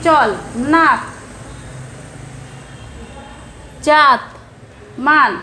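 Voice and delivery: চল, নাক, জাত, মান each ending on a bare consonant; হসন্ত উচ্চারণ; hasanta endings. Shown as a demonstration. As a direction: cut each word off after the last consonant. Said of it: "ইত্যাদি এভাবে উচ্চারিত হচ্ছে".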